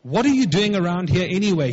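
a touch of anger in the question; mildly angry. Acted. Big brother scolding David among the soldiers, mildly angry. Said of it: "he was angry".

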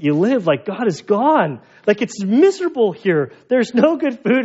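hamming up how miserable the place is; mock lament building up. Pastor retells joking confession to Josh.

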